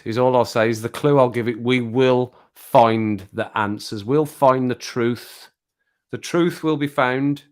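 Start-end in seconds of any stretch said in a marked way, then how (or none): 1.6-7.4 slow, portentous vow; mock-dramatic declaration. Streamer hinting at coming video, slow mock-dramatic. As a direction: spell out each word with grand weight. Teasing a clue about the video.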